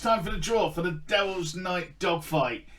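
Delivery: loud, high draw announcement; announcer voice. Acted.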